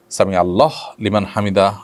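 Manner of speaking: আল্লাহ ends on a closed h, no final u; stop on Allah. Shown as a demonstration. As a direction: halt at the end of আল্লাহ before লিমান. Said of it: "আল্লাহ শব্দে থেমে বলতে হবে".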